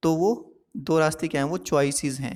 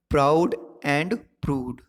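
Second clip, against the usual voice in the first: प्राउड and prude drawn out slowly, stressing the p; slow example read; much slower than usual. Shown as a demonstration. Teacher reading the example slowly for the class. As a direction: stretch the p sounds. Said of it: "प और प sound".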